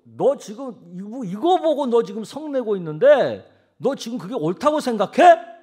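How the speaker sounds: indignant divine rebuke, building; confronting demand. Acted. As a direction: loudly take someone to task, building to the last word. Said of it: "그렇게 지금 하는 거잖아요".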